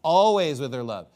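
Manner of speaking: "Always" leaned on, then falling; stress on ALWAYS. Shown as a demonstration. Preacher repeating the verse's emphasis to the congregation, firm stress on "Always". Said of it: "What's the emphasis of this?".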